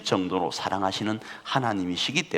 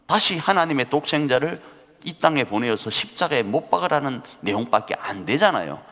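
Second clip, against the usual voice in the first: ordinary talk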